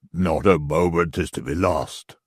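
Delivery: a worried man swearing under his breath; Stracey's voice. Acted.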